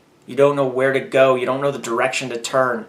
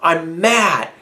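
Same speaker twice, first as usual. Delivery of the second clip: angry prayer; 3 semitones higher, slower than usual. Retold or imitated. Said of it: "walk into the throne room of God and say".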